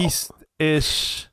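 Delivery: calling back. Acted. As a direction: call out an unsure direction. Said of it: "can I yell back?".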